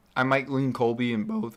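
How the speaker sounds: high voice cracking mid-sentence. Giving a pick in a group discussion, the speaker's voice cracks: voice cracking. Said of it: "nasty voice crack".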